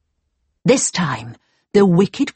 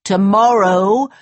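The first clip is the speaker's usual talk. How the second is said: dwarf; 2 semitones higher, 4 dB louder, slower than usual. Acted. Dwarf warns Snow White.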